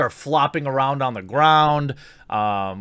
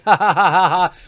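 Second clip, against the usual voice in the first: hammed-up laughing; mocking laugh; 4 semitones higher, 6 dB louder than usual. Mocking the YouTuber's laugh, loud fake laughter. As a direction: laugh like she does at the squid.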